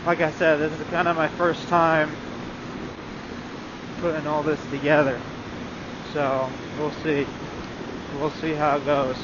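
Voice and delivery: muffled in a helmet over wind; talking inside a motorcycle helmet. Real, not acted. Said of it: "there's a lot of wind noise".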